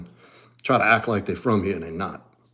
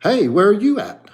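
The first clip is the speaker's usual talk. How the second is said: mocking Jersey guy; 10 semitones higher, 4 dB louder than usual. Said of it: "I'm like, "What?".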